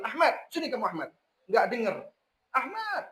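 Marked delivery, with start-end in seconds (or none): 0.0-1.1 put-on plain call to a child across the room. Parent calling son Ahmad from afar, plain call. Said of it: "Bukan manggil". 2.5-3.0 much higher pitched yell of the name. Retold or imitated. Parent yelling again when the son does not hear, high yell. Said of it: "nggak denger, teriak lagi gitu".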